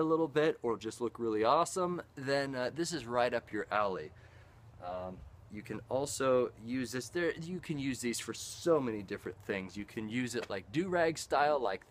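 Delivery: muffled by cloth gaiter; through a face covering. Real, not acted. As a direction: mouth behind fabric mask. Seen 1: Gaiter covers mouth and nose in every labelled frame; down by +11.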